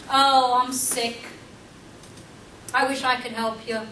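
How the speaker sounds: whiny victim voice. Pretend. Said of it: "woe is me, plays the victim".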